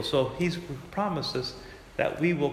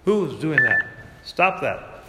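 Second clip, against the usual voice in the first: annoyed surprise; 4 dB louder, much slower than usual. Real, not acted. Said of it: "Someone's calling me on my phone".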